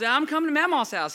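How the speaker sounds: high, loud little-boy imitation; excited six-year-old. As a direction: shout it like an eager kid. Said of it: "He's six".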